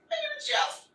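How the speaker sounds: mock superhero voice carried home; exaggerated put-on vigilante voice; Batman. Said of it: "the thing about doing Batman".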